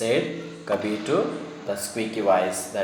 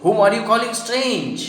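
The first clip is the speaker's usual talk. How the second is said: high-pitched challenge from a talking hat; lightly squeaky, indignant question; 8 semitones higher than usual. A narrator's reading. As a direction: ask it high, a little squeaky. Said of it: "asked squeaky voice again".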